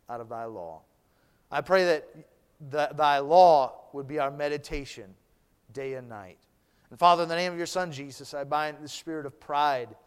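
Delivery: earnest pulpit prayer, trailing off at line ends. Acted. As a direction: pray it over the congregation. Pastor leads an opening prayer.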